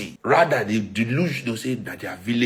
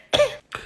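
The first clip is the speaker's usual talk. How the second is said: strained cough. Real, not acted. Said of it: "my throat go blow".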